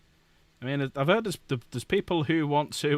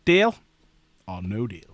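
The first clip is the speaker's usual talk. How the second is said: game show host; 5 semitones lower, 4 dB louder than usual. Pretend. Offering chat a game-show deal.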